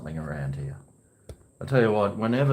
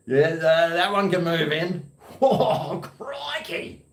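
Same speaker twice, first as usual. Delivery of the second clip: excited; 6 semitones higher, slower than usual. Acted. Reacts to passing woman.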